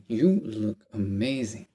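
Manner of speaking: slow, smooth imitation of a suave guy; lightly voiced, slow and silky praise; smooth suave compliment. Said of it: "not gonna say it as smooth and as suave".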